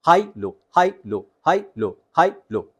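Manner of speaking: हाई up, लो down, swapping each time; alternating high and low. Shown as a demonstration. Coach drills switching high and low pitch. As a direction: bounce हाई high then drop लो low. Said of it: "tone को रखना है, उसकी quality को रखना है".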